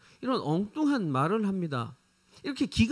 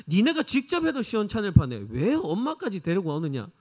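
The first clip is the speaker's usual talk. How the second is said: a touch of angry rebuke; mild mock telling-off of the brothers; indignant scolding; 3 semitones higher than usual. Ten disciples scolding James and John, mildly indignant.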